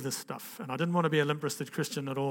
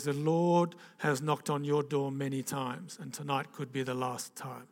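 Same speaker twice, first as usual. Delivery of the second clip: imitated German accent, slow and measured at first; thick German accent; slower than usual. Evangelist warning the young executive, German accent. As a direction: lightly put on a German preacher's accent. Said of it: "he's got this thick German accent".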